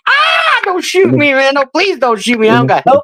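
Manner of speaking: high, panicked begging not to be shot; desperate cracking pleading. Retold or imitated. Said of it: "I'm going".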